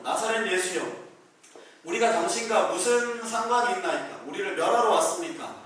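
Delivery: loud acted demon cry, rising on the question; demon shrieking. Preacher acting the demon crying out at Jesus in the synagogue, loud. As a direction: cry out as the possessed man bursting from a corner. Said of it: "이렇게 소리를 지르면서 비명을 지르는 거예요".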